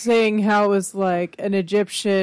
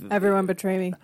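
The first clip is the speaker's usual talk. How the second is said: Tommy Wiseau impression; faster than usual. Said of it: "he betrayed".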